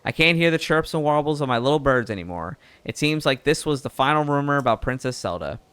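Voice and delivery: lightly southern reporter voice, easygoing; southern accent. Acted. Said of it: "now it's going really southern".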